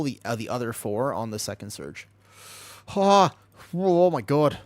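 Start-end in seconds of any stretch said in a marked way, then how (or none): 2.9-4.6 cold groan. Real, not acted. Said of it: "I'm actually shivering".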